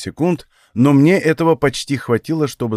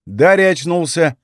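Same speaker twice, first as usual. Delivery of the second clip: high, loud cheerful greeting; bright call to a waking friend; happy high exclamation; 6 semitones higher, 4 dB louder than usual. Acted. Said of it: "произнёс Танис весело".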